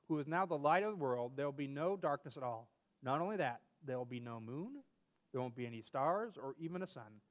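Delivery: put-on reading a children's story aloud. Reading a story about Grandpa and Charlie to a friend, storyteller voice. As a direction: tell it like a bedtime story.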